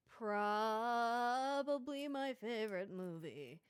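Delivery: slow, drawn-out spooky ghost voice. Acted. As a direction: moan it like a little ghost. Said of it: "I like your little ghost voice for that".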